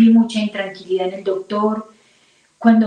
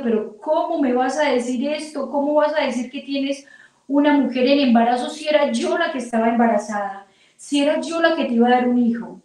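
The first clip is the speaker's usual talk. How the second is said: higher-pitched indignant questioning; hurt, incredulous protest; 4 semitones higher than usual. Retold or imitated. Betrayed wife confronting husband about another woman's pregnancy, hurt protest. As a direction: retell a wounded reproach in disbelief.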